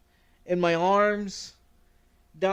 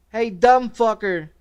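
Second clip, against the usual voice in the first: louder, slower call; mom calling out; 4 semitones higher, 9 dB louder, slower than usual. Retold or imitated. Mom finds the pills, calling out loud. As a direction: call him out like an annoyed mom.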